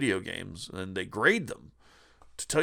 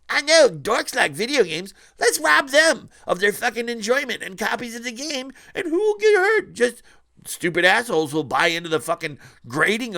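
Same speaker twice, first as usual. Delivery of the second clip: much higher and louder hammed-up hustler voice; mock scalper pitch; 9 semitones higher, 8 dB louder than usual. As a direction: play the sleazy scalper selling the scheme, over the top. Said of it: "walked up to him and says".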